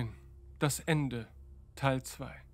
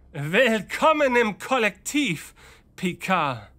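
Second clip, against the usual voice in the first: triumphant, louder and higher; 4 semitones higher, 4 dB louder than usual. Acted. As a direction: gloat in victory.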